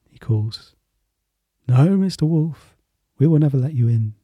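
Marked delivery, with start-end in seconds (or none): 1.7-4.1 scared voices. Acted. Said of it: "the scared voices".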